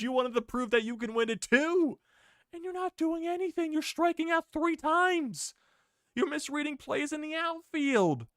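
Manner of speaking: exasperated rant. Real, not acted. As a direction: rail at the player in disbelief. Fan scolding Acuna on screen.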